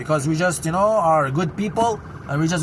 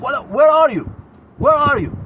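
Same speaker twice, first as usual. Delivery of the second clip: exasperated call; 5 semitones higher, 4 dB louder than usual. Real, not acted. Calling out for the sheikh.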